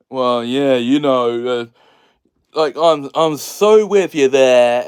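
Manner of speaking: mock-sincere sarcastic agreement. Shown as a demonstration. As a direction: pretend to be totally on board while mocking it. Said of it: "The tone that you would say that in is a sarcastic tone".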